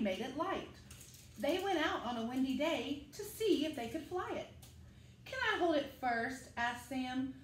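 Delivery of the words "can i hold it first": put-on a slightly higher, eager child voice; lightly voiced small boy begging to hold the kite; little Sam's voice. Sam the small boy asks.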